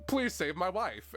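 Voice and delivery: high, slow mock plea; pleading townsfolk. Streamer voicing townsfolk in the final battle, mock pleading. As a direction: imitate a villager begging for help. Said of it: "everyone in the town is just like".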